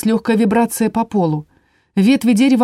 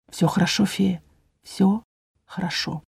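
much softer, tender reassurance; soothing; 7 dB quieter than usual. A narrator's reading. Inquisitor comforting the fairy, soft and tender. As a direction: hush her gently, fading away.

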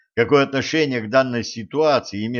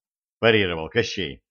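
plain reading voice

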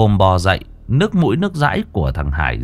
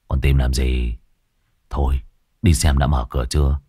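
weary injured man; 8 semitones lower than usual. A narrator's reading.

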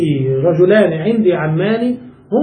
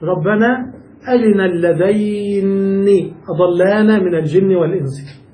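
Quran recitation. Shown as a demonstration. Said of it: "في القراءة السبع قول الله تعالى".

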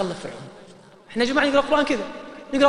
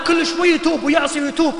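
emphatic shout; 6 semitones higher, 4 dB louder than usual. Real, not acted. Preacher stressing repeated repentance.

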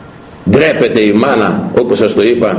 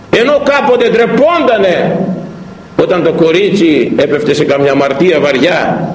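usual speaking voice

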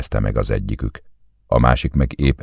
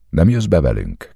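higher-pitched, surprised question; 6 semitones higher than usual. A narrator's reading. Ári asks whether the guest is coming in, surprised. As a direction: ask it with surprise, voice lifting. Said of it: "kérdezte Ári meglepetten".

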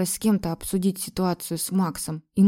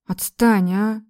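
mild irritated snap; 3 semitones higher, 5 dB louder, much slower than usual. A narrator's reading. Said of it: "разозлилась я".

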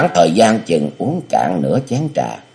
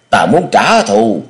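slow, louder, higher vow of revenge; roaring vow; 4 semitones higher, 4 dB louder, slower than usual. Acted. The hero vows revenge, a slow mock roar. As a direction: growl it out slowly. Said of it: "gầm lên".

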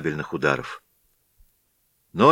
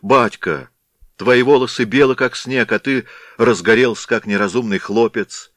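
pleading; 3 semitones higher, 3 dB louder than usual. Acted. Katerina pleads with raging father.

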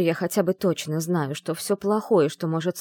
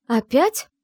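higher, louder outraged cry; indignant exclamation; 8 semitones higher, 7 dB louder than usual. A narrator's reading. Sister-in-law sees the heroine brought in, outraged cry. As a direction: throw out an annoyed "again?". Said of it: "возмущённый возглас".

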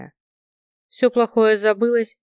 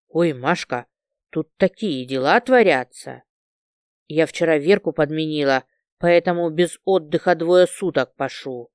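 excited rambling; 5 semitones lower than usual. Acted. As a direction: lower breathless rush of chatter. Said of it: "Танька тараторила без остановки".

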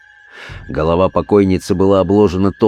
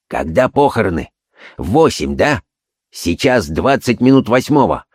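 short clipped bursts; staccato. Acted. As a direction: fire off the questions. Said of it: "отрывисто заговорил он". (отрывисто)

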